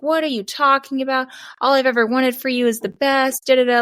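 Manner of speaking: hammed-up indignant rant; retelling the agent blowing up at her; imitating a furious agent. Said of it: "He got furious".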